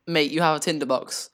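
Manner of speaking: put-on a light Australian accent, matey and casual; a hint of an Australian accent. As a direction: say it like a laid-back Australian bloke. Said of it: "Why am I Australian?".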